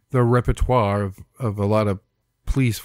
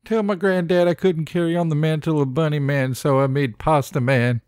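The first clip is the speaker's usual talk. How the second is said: dying grandson; 5 semitones higher than usual. Acted. Acting dying boy's last words.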